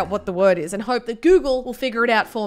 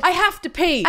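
firm, higher-pitched announcement; firmly stated; 6 semitones higher than usual. Retold or imitated. Nervous library visitor announcing the slip, firmly. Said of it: "walked in and firmly stated".

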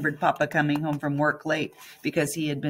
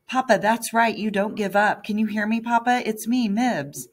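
loud, higher pleading shout into his ear; yelling; 6 semitones higher, 5 dB louder than usual. A narrator's reading. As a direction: yell so he hears you. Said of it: "stop yelling".

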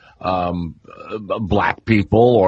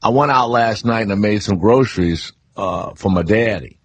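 easy, local New Orleans speech; New Orleans accent. Shown as a demonstration. Guest quoting local sayings to the host, New Orleans accent. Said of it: "we say stuff like".

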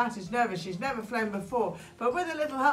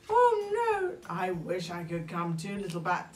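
sigh; 2 semitones lower than usual. Acted. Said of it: "sighed Python".

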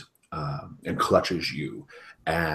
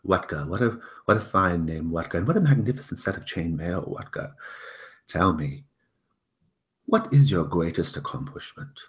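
a hint of a pompous host, raised; lightly voiced fussy lord; 4 dB louder than usual. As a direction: ask with mild pompous charm.

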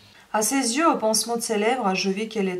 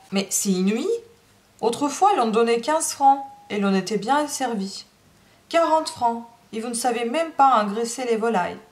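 indignant outburst. Acted. Madame scoffs at wage demand.

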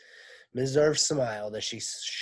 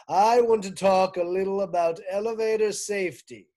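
higher, louder PA lecture; pompous principal announcement; 4 semitones higher, 7 dB louder than usual. Acted. Mister Kidswatter addressing school, loud pompous PA speech. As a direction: lay down the rules proudly.

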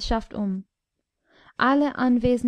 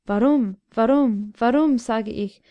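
louder, furious repeated why; the king rounds on the dwarf, angry and loud; furious demand; 3 dB louder than usual. Acted. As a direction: hammer the question at the dwarf in rage. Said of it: "wandte sich der König wütend".

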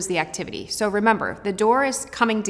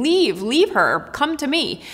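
desperate plea; 5 semitones higher, slower than usual. Retold or imitated. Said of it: "you can see her desperation".

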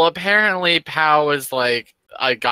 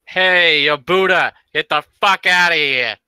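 yelling; 3 semitones higher, 5 dB louder than usual. Acted. Player yells at Yobuda to clear out, shouting. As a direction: holler it across the room. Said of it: "I yelled".

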